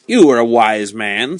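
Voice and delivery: slow, pleased, with a smile in the voice; smiling. Acted. Marquis to the wise wine seller, slow and smiling. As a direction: say it through a smile.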